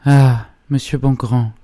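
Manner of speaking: high, slow, anguished appeal; choked voice. A narrator's reading. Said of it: "d'une voix étranglée". (voix étranglée, aiguë et traînante)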